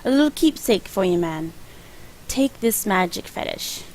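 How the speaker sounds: a light, sing-song hint of a Jamaican accent. Gamer voicing the shaman's gift in a light Jamaican accent. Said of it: "he talks like it".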